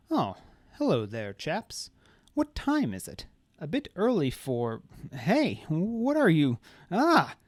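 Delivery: rising startled cry; drawl into cry. A narrator's reading. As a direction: genial drawl breaking into alarm. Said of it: "good-natured drawling cut off into a gurgled cry".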